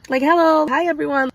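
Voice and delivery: high, bright forced hello; mock-cheerful hello to the room; awkward greeting. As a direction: cover the awkwardness with a chirpy hi. Awkward greeting in a tense meeting.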